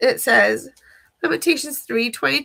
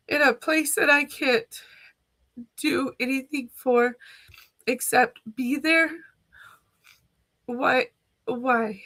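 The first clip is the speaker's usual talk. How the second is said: pleading through sobs, one line almost a whisper; crying prayer. Real, not acted. Voicing her own desperate prayer while crying. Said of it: "I'm sorry for crying".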